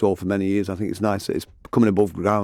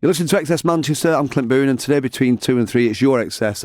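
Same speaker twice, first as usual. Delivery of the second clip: upbeat on-air radio link, pitched higher; radio presenter; 3 semitones higher than usual. Acted. Host opens the segment to listeners with an upbeat radio presenter read. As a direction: announce the station and show like a DJ.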